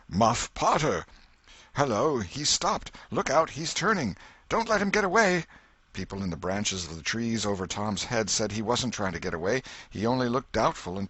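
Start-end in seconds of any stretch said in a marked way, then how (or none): 0.1-5.5 crowd shouting. Acted. Crowd shouting as Potter arrives.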